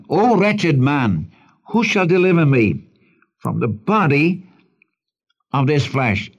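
a measured cry that eases toward the end; cry for help. Acted. Preacher voices Paul crying out for deliverance, mildly pleading. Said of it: "It's a cry for help".

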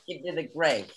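lightly voiced New York mobster; a hint of a New York gangster; mock tough-guy accent. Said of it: "I don't think he has that accent".

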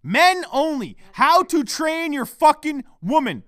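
high, loud, slow declaring; mock proclamation. Podcaster proclaiming a union for men, mock proclamation. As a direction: announce it forcefully to the troops.

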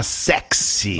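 whispered sexy. Pretend. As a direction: breathe the word out. Signs off codename, breathy.

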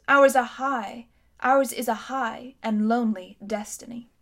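a haughty queen remembering her city's might; lightly voiced imperious queen; proud queen. Queen lectures the boy.

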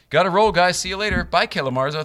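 loud high farewell call; calling out goodbye. Real, not acted. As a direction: shout a cheery goodbye. Sudden sign-off shout to departing guest.

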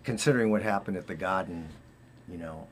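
light Boston accent on Garden. Real, not acted. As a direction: let the Boston accent slip in. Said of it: "your little Boston accent".

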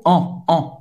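ON as a nasal vowel, like a donkey; very nasal sound. Shown as a demonstration. Teacher mimicking a donkey for the vowel, nasal ON. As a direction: bray ON through the nose, no N. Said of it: "que é um som bem nasal".

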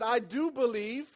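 a restrained, slow outcry of faith; mildly cried out. Retold or imitated. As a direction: cry it out slowly, but only half-way. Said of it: "The father instantly cried out".

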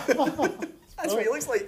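laughing hard as he talks; words squeezed out between laughs. Real, not acted. Laughing at own joke.

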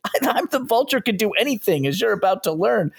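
a cartoon villain bragging at his victim; menacing villain. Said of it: "And the Vulture's like".

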